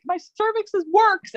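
high, excited mock cheer; giddy high exclamation; jubilant. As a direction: celebrate the news. Jubilant quote of herself.

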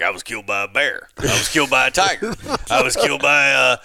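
guys' obituaries. Retold or imitated. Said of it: "the guys would be like".

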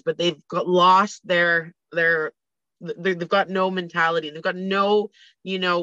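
stuffy blocked nose; talking through a blocked nose; nasal voice. Real, not acted. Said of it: "I'm so sorry about my nose today".

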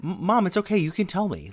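imitating little sister. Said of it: "So my sister's saying".

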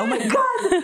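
high-pitched mock exasperation through laughter; imagined exasperated Amber. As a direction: squeal it in comic impatience. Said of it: "שאת מדמיינת את אמבר כזה".

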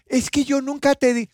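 high mock argument between two housemates, half laughing; acted quarrel. Friend retells a housemate fight, high mock quarrel voices.

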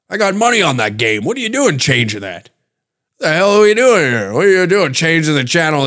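worked-up, high-pitched uncle rant; yelling degenerate uncle. Acted. Uncle with money on the game, mock yelling. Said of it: "degenerate uncle that's in the corner that's yelling".

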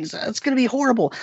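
mock-fearful teen whine; imitating a scared kid. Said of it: "'cause he's afraid of this mummy".

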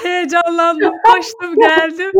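loud, high, breathless excitement; gasping out each word; out of breath. Real, not acted. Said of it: "on beş dakikadır merdiven çıkıyor".

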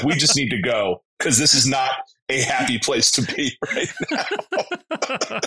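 laughing through the words, slowing at the end. Retold or imitated. Telling friends about leaving the stadium, laughing. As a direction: chuckle as you admit you had to leave.

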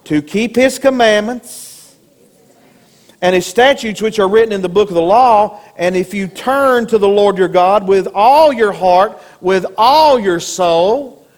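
call and response. Acted. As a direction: say it for them to repeat. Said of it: "Everybody say".

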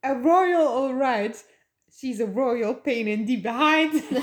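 slow sneering villain, lightly voiced; a touch of a gloating villain; Preminger's sneer. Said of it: "En dan zegt de Preminger".

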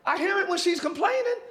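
heaven asking. Acted. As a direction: play heaven looking for the missing sound. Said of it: "heaven is like".

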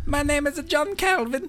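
a hint of an Italian accent, half laughing. John Calvin character introducing himself in a bad Italian accent. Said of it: "why do you have an Italian accent".

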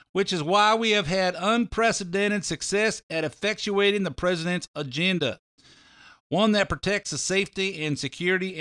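lightly imitated Southern accent; a hint of a Southern politician's accent reading a formal statement; Jeff Sessions voice. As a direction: read the statement in a mild Southern accent, unhurried. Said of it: "my Jeff Sessions voice".

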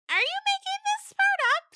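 very high, loud doubtful goat. Acted. Stephanie doubting the storyteller, very high. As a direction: question it like a skeptical kid goat. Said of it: "Stephanie said".

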